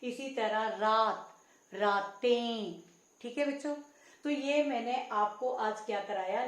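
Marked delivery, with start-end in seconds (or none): 1.7-2.8 रातें slow, with a stretched nasal "en"; slow raa-ten for रातें with a humming end. Shown as a demonstration. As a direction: draw the last vowel of रातें through the nose. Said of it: "ए की आवाज आ रही है".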